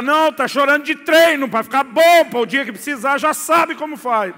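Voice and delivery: a high, loud, sarcastic shout; loud sarcastic rant at the crying son; mock yell. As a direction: yell it at the boy with mocking scorn. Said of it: "Eu tenho vontade de gritar".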